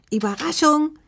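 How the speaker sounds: high, beaming exclamation; joyful surprise call. A narrator's reading. Grandma announcing herself at the door, joyful surprise call. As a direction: sing it out high to announce yourself. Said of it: "rief die alte Dame".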